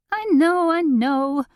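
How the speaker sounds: high anxious patter, words tumbling; chattering. A narrator's reading. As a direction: rattle it off in a fluster. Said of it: "chattered Delane".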